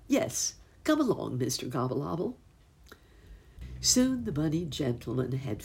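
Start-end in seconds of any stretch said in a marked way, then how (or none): 0.1-2.4 cried out. Acted. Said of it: "cried the bunny".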